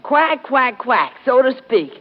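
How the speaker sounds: mock duck quacks; duck quacking. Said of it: "you always go like this".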